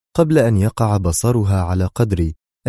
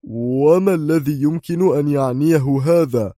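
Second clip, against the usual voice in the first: puzzled; 7 semitones higher than usual. A narrator's reading. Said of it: "سألها في حيرة".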